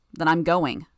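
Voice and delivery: loud, decided declaration; firm announcement. Acted. Bitch telling the team she is leaving, announcing it. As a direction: announce it forcefully. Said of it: "Bitch announced".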